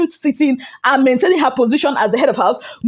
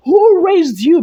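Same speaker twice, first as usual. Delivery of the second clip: louder, raised voice, full chest; 4 semitones higher, 4 dB louder, slower than usual. Real, not acted. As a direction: say it with your full chest, no apology. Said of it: "I said it with my full chest".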